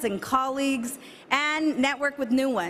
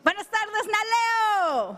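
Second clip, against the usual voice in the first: higher, projected greeting to the hall; outdoor voice; 7 semitones higher than usual. Shown as a demonstration. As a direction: call it out across the room. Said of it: "I'm gonna use my outdoor voice".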